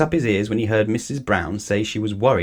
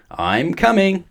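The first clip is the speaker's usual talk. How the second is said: much higher, louder call; 9 semitones higher, 5 dB louder, slower than usual. A narrator's reading. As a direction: shout across that help is on the way. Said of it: "he called".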